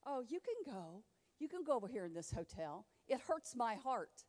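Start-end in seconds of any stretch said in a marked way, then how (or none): 0.1-2.8 mock pastor. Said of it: "pastors are telling their congregation".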